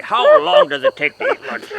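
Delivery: very high, loud whine; hammed-up falsetto; mock exasperated. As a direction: squeak the complaint. Squeaky take of same line.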